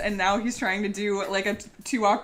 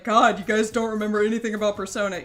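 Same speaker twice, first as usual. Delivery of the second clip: snarky. Retold or imitated. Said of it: "I'm being snarky".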